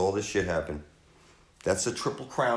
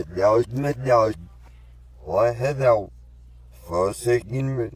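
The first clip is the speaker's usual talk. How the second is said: loud anguished plea; crying out; 5 dB louder, slower than usual. Acted. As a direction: call it out to the heavens. Same words, then cried out.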